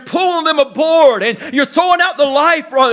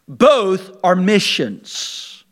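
hushed emphasis; 4 semitones lower, much slower than usual. Real, not acted. Emphatic hushed point in sermon.

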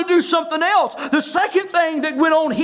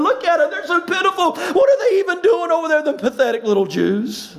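imitating jeering onlookers, lightly sarcastic pity; mocking scorn. Sanballat and his buddies jeer at the builders, mocking. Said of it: "these sarcastic questions ... And they're laughing".

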